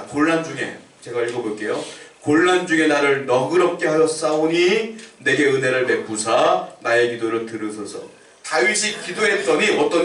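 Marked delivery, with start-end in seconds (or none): 2.2-8.0 slow, weighty reading of the verse; steady solemn recitation; scripture reading. Acted. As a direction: read it aloud to the congregation, deliberately. Rereads the verse.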